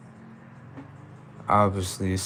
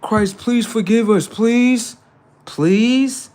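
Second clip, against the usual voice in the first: higher-pitched, drawn-out mock pleas; mock begging; 4 semitones higher, much slower than usual. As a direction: plead for forgiveness, hammed up. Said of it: "begging Christ".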